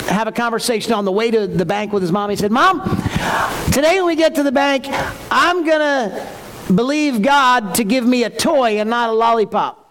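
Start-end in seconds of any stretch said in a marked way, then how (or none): 2.5-9.8 put-on eager little boy. Young son in the car announcing to mom, eager child voice. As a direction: play the excited kid talking to mom.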